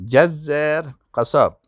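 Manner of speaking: جزار said slowly, every sound clear; careful pronunciation. Shown as a demonstration. Teacher modelling جزار for students, slow and careful. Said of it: "تلفظ درست بکنین".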